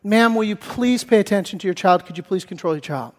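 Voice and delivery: restrained, softening polite plea; polite request. Retold or imitated. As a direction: imitate someone asking as courteously as possible. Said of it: "As politely as I could".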